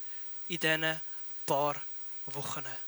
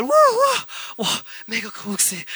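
mock crowd wow; 3 semitones higher, 4 dB louder than usual. Crowd excitement like a musical.

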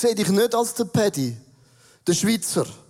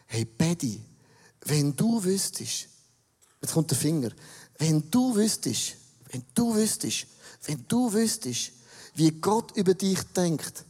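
gentle encouraging; 4 semitones lower than usual. Retold or imitated. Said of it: "Im Heiligen Geist denke ich".

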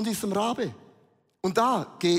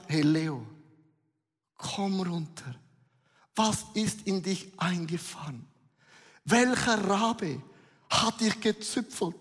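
leiser, ruhiger Zuspruch; calming dove voice. Acted. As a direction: sanft beschwichtigen wie eine Taube. Taube spricht beruhigend zu Leo. (die Taube beruhigt Leo, leise und ruhig)

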